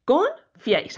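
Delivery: "Confiáis" broken into Con, fiáis; "Con" then "fiáis", each clearly sounded; two separate syllables. Shown as a demonstration. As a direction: say "Confiáis" in two distinct beats. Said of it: "Es una palabra bisílaba".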